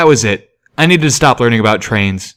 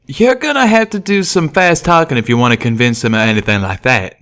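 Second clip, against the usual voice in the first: raised, friendly cowpony twang; Calamity's voice; 3 semitones higher than usual. Acted. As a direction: speak as the eager young pegasus. Calamity replies.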